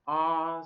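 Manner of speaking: "ah" long and open. Shown as a demonstration. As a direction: open "ah" wide, like in heart. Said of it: "Can you pronounce them".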